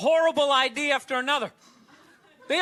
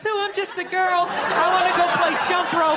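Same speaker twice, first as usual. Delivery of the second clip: mock little girl; 3 semitones higher, 3 dB louder than usual. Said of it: "she'll twist those little hairs into pigtails".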